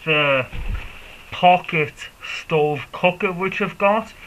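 muffled through a face mask. Real, not acted. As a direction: speak from behind a cycling mask. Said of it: "if I sound a little bit muffled".

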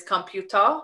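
computer said the South Korean way; "computer" with a Korean accent; Korean pronunciation. Shown as a demonstration. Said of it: "a lot of English-based words".

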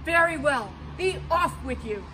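loud troll dismissal; troll letting the second goat go, loud; gruff troll. Acted. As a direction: shoo him off like a troll.

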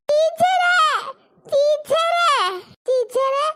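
put-on pinched kid crying to teacher; crying child. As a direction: wail for the teacher.

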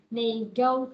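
"Nego-" with a gliding "go"; OH diphthong. Shown as a demonstration. Teacher breaks the word up for class, gliding O. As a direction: stress and round out the "go" of "Nego-". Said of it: "này làm Âu các bạn".

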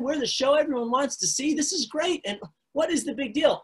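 a friend baffled by the fuss; exasperated disciple. Acted.

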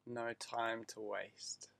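breathy slow whisper. Acted. Guide whispering to meditating listeners, slow whisper. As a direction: drop to a hushed whisper.

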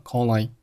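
"call I" joined as one word; linked words. Shown as a demonstration. Teacher showing learners linking, "call I" run together. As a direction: carry the l of "call" into "I". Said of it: "call和I又连读成了".

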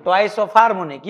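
Twice of harmonic spoken slowly, weight on harmonic; slow repeat. Shown as a demonstration. Teacher asking the class to repeat the reading, slow. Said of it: "क्या पढ़ते हैं?".

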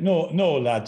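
lightly imitated Yorkshireman from Leeds; Yorkshire accent. Exorcist from Leeds contradicting a sceptical friend, imitated Yorkshire accent. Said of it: "I'm sorry about my accent".

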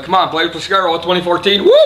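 loud whooping party cheer; excited cheer. Real, not acted. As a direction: hype it up on vacation. Drunk vacation cheer.

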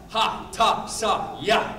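demonstrating short martial arts yells to students. Shown as a demonstration. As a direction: bark each syllable short. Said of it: "Short yells".

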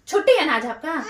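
chuckling through the jab; laughing tease. Real, not acted. Wife teasing husband about his day off, laughing. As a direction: laugh it off while teasing him.

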